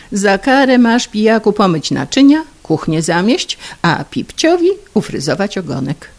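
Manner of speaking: put-on wife scolding her drunk husband, loud and high. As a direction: lay down the punishment.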